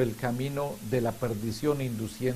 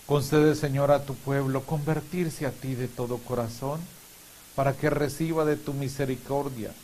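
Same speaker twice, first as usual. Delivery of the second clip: measured, solemn prayer intentions; liturgical prayer. Real, not acted. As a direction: lead the congregation in prayer. Leads prayers of the faithful.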